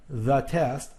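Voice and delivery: "the test", with "the" rhyming with duh; THE as thuh. Shown as a demonstration. Teacher working the exercise, "the" as thuh. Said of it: "it rhymes with duh".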